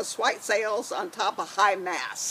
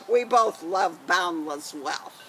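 pirate voice; 3 semitones lower than usual. Acted. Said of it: "gonna be Janie with her pirate voice".

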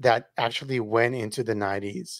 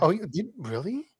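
whisper; 6 semitones higher, 3 dB quieter than usual. Real, not acted. Aside whispered.

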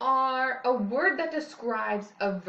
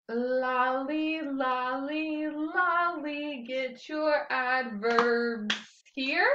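done wrongly; much slower than usual. Shown as a demonstration. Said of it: "do it wrongly".

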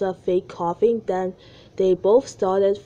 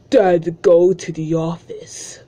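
whispering; 8 dB louder, slower than usual. Retold or imitated. Whispered mock quote.

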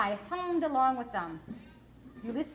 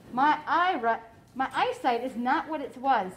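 lightly voiced elderly woman, unhurried; a hint of an old lady peering through her magnifying glass; old lady doctor; 5 dB louder than usual. Old doctor peering at the squirrel, lightly voiced old lady.

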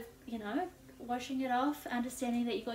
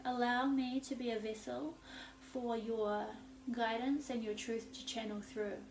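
prayerful invocation. Real, not acted. Invocation to a goddess.

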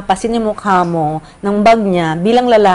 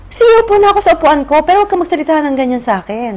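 angry retort; 8 semitones higher, 4 dB louder, faster than usual. Retold or imitated. Retold quarrel with passenger.

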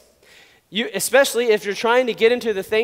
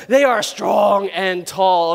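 hammed-up dread; 4 dB louder, much slower than usual. Hammed-up description of the giants.

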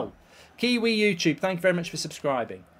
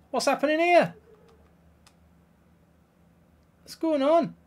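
disbelief; 9 semitones higher than usual. Real, not acted. Bewildered at game.

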